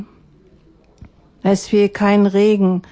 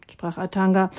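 ordinary delivery

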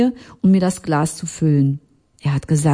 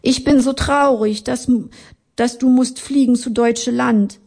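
sad Italian man in broken German, voice raised; Italian accent; 7 semitones higher than usual. Acted. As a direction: lament the parting with a light Italian lilt.

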